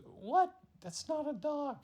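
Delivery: high, loud startled cry; startled girl. Acted. Girl shocked by the creature, high loud cry. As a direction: jump back in shock. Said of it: "And she goes".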